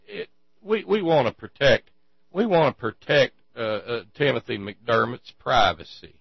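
loud, stammering, hammed-up pleading; mock lawyer's plea. Lawyer asking the judge to suppress the photo, stammering and pleading. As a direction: play a flustered lawyer begging the judge.

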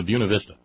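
"Buena" said as "BYOO-nuh"; Southern rendering. Shown as a demonstration. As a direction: say "Buena Vista" as BYOO-nuh VIS-tuh. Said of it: "one of those obscure Southern renderings".

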